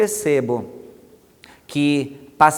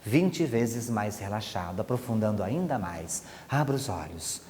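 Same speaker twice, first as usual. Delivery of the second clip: quiet, lower, heavy trance voice; softer hypnotic tone; 4 semitones lower, 7 dB quieter than usual. Shown as a demonstration. Hypnotist deepening trance, voice sinking quiet and low. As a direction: sink the voice down, heavy and soothing. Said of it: "E eu começo a mudar também a entonação".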